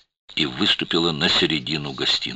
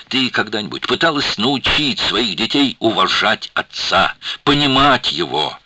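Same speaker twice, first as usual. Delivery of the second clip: mounting reproach; 7 semitones higher, 5 dB louder than usual. A narrator's reading. Shana reproaching the mother.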